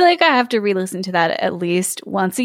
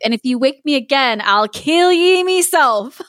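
angry threat; 4 semitones higher than usual. Acted. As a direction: growl out a sleepy threat. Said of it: "he woke raging".

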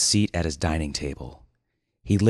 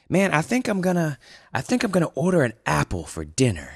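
lightly higher, coy reveal; a hint of smug dude voice; Winston's voice; 9 semitones higher than usual. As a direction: announce it like a big secret. Winston reveals his plan.

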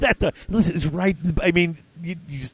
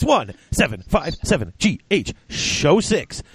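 slow, higher-pitched announcement of the number; slow repeat; 3 semitones higher, slower than usual. Real, not acted. Host repeating the call-in number for listeners, slowly and deliberately. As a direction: spell the number out slowly for callers.

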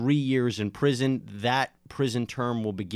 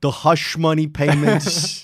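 slow, loud, each word drawn out; mock hearing accusation; 4 semitones higher, 9 dB louder, slower than usual. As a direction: drag it out like an accusation.

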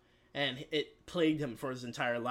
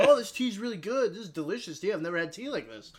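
high, louder start that eases off; mock gushing delight; 6 semitones higher, 4 dB louder, faster than usual. Guest praising the host's tea, mock delighted. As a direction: rave in a put-on high voice.

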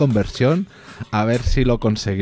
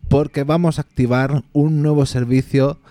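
town crier; 3 semitones higher than usual. Acted. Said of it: "un aviso importante".

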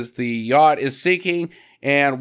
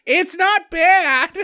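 very high, slow, laughing squeak; mock delight, stretched out; surprised Suzanne; 11 semitones higher, much slower than usual. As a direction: taste it and act pleasantly shocked. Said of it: "and she's like".

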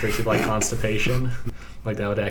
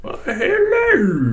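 slow, high, hammy Cockney hello; ridiculous thick Cockney greeting; overdone Cockney accent; 7 dB louder, much slower than usual. Acted.

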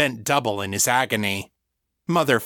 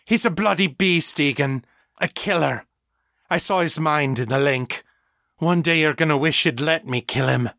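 glaring contempt; 5 semitones higher than usual. A narrator's reading. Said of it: "glaring at Victor from across the room".

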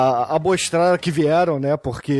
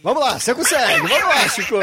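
mock encouraging, higher and quick; 8 semitones higher, faster than usual. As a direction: egg him on like a coach, fast. Cheering on stumbling co-host.

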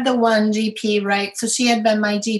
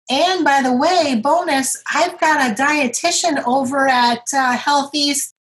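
upbeat doctor; 4 semitones higher than usual. Retold or imitated. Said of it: "that doctor actually was like".

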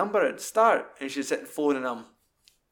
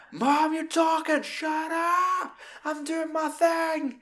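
put-on high whiny teen, slow drawn-out; stroppy teenager; much slower than usual. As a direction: snap at mum like Kevin and Perry. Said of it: "like a stroppy teenager".

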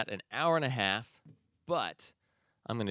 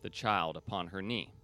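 measured verse reading with pauses between phrases; poem recitation. Acted. Host reads an inspiring nature poem to listeners, as a measured recitation. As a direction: let each line of the poem settle.

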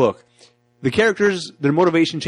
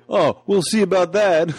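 slow Tommy threat; 5 semitones higher, slower than usual. Retold or imitated. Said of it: "he's like".

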